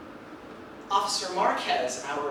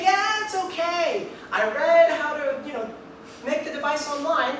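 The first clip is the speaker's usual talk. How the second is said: voicing Larry; 8 semitones higher, 4 dB louder than usual. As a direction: play him as breezy and sure of himself. Voicing cocky friend Larry.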